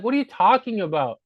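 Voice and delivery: play-acted disbelief; mock indignant retort. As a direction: push back as if wrongly accused.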